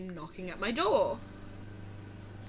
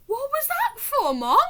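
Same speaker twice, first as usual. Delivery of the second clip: put-on high whiny kid; 13 semitones higher, 5 dB louder than usual. Kid asking mom.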